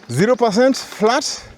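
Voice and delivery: panting between words; breathless from the climb; out of breath. Real, not acted. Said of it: "let me catch my breath".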